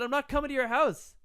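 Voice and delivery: high-pitched retold protest; insistent refusal. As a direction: refuse with rising exasperation. Acted refusal repeated louder.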